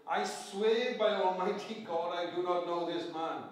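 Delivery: loud, slow and solemn, every word weighed; a sworn denial, loud and deliberate; solemn oath. Retold or imitated. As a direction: swear it before God, slowly. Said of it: "The oath here is to say".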